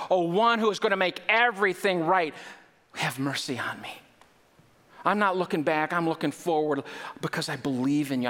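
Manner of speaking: rising plea to Jesus, some lines hushed; blind beggar crying out for mercy. Acted. Preacher voicing the blind man's plea to Jesus, rising and pleading. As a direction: beg for mercy, building with each title. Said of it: "And he cried out".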